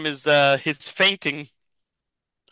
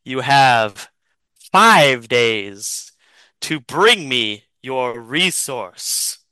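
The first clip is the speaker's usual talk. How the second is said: low menace; 4 semitones lower, 3 dB louder, much slower than usual. Acted. Chameleon's parting threat.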